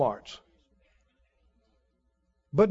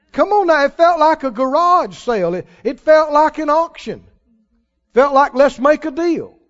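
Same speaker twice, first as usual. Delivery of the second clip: rising, louder preaching build; 4 semitones higher, 3 dB louder than usual. Acted. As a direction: preach it with growing force. Sermon builds to full force.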